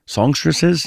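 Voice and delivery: "Songstresses?" asked with a doubtful rising tune; "Songstresses?" queried back to himself, unsure of the word; questioning the word. Real, not acted. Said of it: "Yeah, you can say that".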